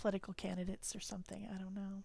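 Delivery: unvoiced, whispered aside.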